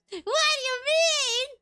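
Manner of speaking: high, slow laughing question. Real, not acted. Laughing confused reaction.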